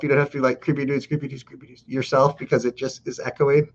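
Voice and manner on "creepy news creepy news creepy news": mock echo dying off to almost nothing; homemade echo. Co-host mimics host making the echo yourself, fading echo. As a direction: repeat it, fading away like an echo. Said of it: "make the echo yourself".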